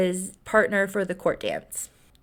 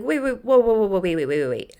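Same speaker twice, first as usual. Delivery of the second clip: urgent stalling; faster than usual. Retold or imitated. He urgently stops her leaving.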